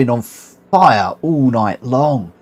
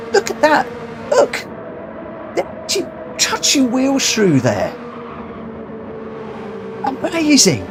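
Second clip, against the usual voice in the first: much higher, gushing with excitement; thrilled; 10 semitones higher than usual. Real, not acted. Streamer watching drivers touching wheels in replay, thrilled squeal. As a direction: squeal at the replay's close battle.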